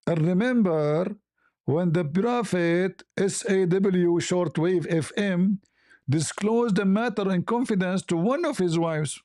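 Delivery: slow, measured scripture reading; solemn verse reading. Acted. Reading the Quran verse aloud to viewers, slow and measured. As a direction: read the verse out slowly, like reciting.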